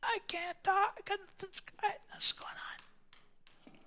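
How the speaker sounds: high, breathless whisper of a man who lost his voice; mock voiceless croak; hoarse whisper. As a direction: whisper like your voice is gone. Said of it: "He's like".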